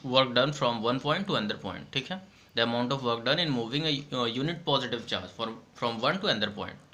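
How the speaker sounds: reading the bookish definition slowly for notes; slow dictation. Shown as a demonstration. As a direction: dictate each phrase so students can write.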